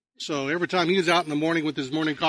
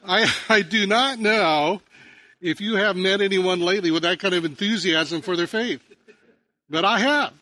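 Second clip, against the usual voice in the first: emphatic preaching; 4 semitones higher, 5 dB louder than usual. Real, not acted. Pastor emphatic after joke.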